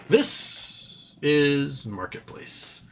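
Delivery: slow, drawn-out radio sign-off; imitating Kai Ryssdal. Streamer doing the Marketplace host's sign-off, very slow. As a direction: stretch every word like a public radio host. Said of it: "my Kai Resdal say".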